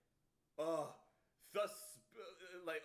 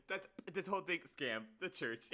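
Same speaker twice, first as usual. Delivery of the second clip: giggly repeat; 3 dB louder than usual. Retold or imitated. Repeats the clip line laughing.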